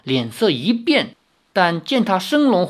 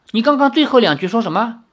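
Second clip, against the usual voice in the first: demanding; 7 semitones higher, 3 dB louder, faster than usual. Acted. Girl demands repetition.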